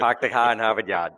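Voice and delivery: put-on laughing Boston accent; hammed-up Boston accent. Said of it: "Love my Boston accent".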